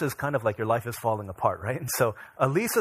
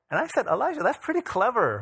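amused laugh; 8 semitones higher than usual. Real, not acted. Amused reply to son.

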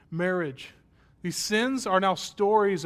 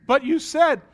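put-on much higher, loud kid protest; whiny protest; 10 semitones higher, 11 dB louder than usual. Child protesting to his mother she promised, whining. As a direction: cry out it's unfair.

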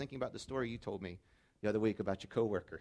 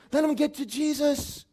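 emphatic repeat; 13 dB louder, slower than usual. Shown as a demonstration. Pastor repeating it to the congregation, slow and loud. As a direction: Let them get to Jesus slower, higher and louder.

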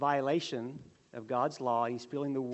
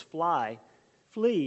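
flee! cry the warning urgently; 6 dB louder than usual. Acted.

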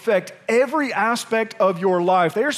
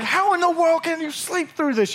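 incredulous thought; 9 semitones higher than usual. Retold or imitated. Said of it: "And I'm like".

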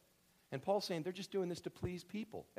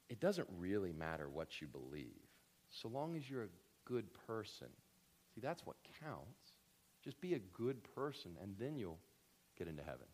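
much lower, softer, easygoing mock voice; liberal churchgoer; 6 semitones lower, 7 dB quieter than usual. Pastor mimicking a liberal church's relaxed line, soft. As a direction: shrug it off mildly, low and soft. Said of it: "which would say".

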